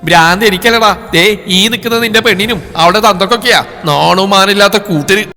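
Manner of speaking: shrieking. Acted. Mother raging at her son about the bride, shrieking. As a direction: lash out at the bride's family. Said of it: "Sumathi ചീറി".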